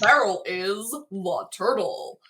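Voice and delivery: slow, lightly voiced vintage announcer; old-timey announcer voice. Shown as a demonstration. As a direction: read it like an old radio ad, unhurried. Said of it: "I have to read it in old-timey announcer voice".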